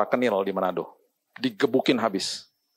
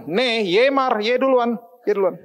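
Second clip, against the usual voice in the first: father's tender insisting; 11 semitones higher, slower than usual. Retold or imitated. Father urging wife go first.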